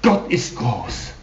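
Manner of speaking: slow, weighty quoting of the cry as the papers render it; quoted battle cry. Retold or imitated. Preacher quoting a bomber's cry, slow and low. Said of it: "rief er".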